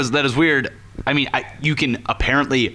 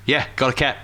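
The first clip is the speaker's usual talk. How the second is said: attempted British accent; 4 semitones lower, 3 dB quieter than usual. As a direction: lower British-turned-Australian quote. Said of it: "it's going to be Australian".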